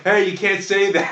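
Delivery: imitating Will scolding Brad for swearing, loud and slow; mock scolding. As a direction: call it across the set like a director. Director scolds actor for swearing.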